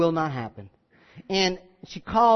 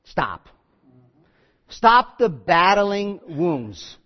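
firm stop; 4 dB louder, much slower than usual. Retold or imitated. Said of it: "could have said".

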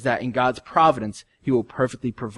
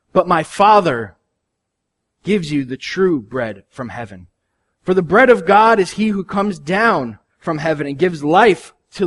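scripture reading; 5 semitones higher, 6 dB louder than usual. Acted. Reads scripture aloud.

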